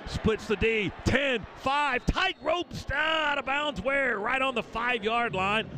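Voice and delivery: high, slow, drawn-out call; excited call. Real, not acted. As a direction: stretch out the sideline moment. Long run to the five.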